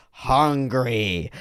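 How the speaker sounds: drawn-out word, mimicking a small child; imitated kid. Kid repeating big text from a book, imitated child voice. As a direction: echo the storybook word like a little kid. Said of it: "And the kid goes".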